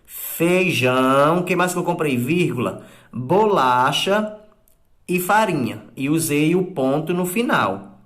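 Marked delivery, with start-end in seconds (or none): 0.1-5.9 slow, measured reading of the example; slow dictation. Shown as a demonstration. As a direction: dictate it word by word. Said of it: "eu usei a vírgula". (leitura lenta de ditado)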